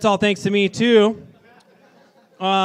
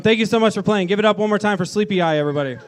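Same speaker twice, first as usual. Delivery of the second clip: announcer shout; 4 semitones higher, 6 dB louder, faster than usual. Real, not acted. MC thanking the band.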